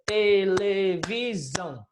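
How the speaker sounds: te-le-vi-são, each syllable of televisão drawn out slowly; slow clapped syllables. Shown as a demonstration. Teacher clapping out syllables for the class, slow and drawn out. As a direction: spell out televisão slowly, one beat per syllable. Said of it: "O professor deu a diquinha de bater a palma".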